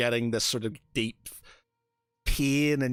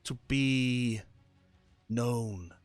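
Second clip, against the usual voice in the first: a hint of a seductive patron; 3 dB quieter than usual. The voice tempts Arno again.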